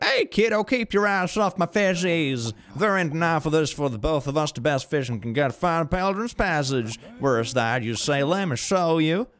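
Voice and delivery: high, hammed-up Southern fisherman; exaggerated Southern US drawl; Southern accent. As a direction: scold like a cartoon Southern good ol' boy. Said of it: "like a southerner with that mustache".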